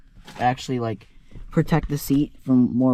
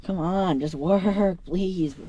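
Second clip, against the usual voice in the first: high, pleading coax; pleading with a machine; 6 semitones higher, much slower than usual. Real, not acted. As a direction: beg the stubborn cover to work. Begging seat cover to stay on.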